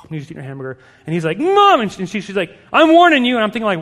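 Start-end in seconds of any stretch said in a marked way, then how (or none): 1.4-1.8 high, loud imitated child's yell; whining kid. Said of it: "this kid goes off". 2.7-3.3 high, loud imitated warning; frustrated mom. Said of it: "she's get frustrated".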